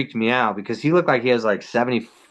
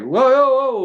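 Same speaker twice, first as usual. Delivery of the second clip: high, louder alarmed backing off; startled whoa; 11 semitones higher, 3 dB louder than usual. Retold or imitated. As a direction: throw up your hands and back away. Startled by a cop's order.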